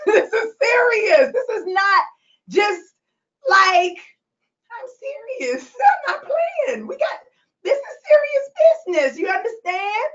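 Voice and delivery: high voice, choked up and halting; tearful insistence. Real, not acted. Telling her community it's serious, tearfully. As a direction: push through real tears to insist.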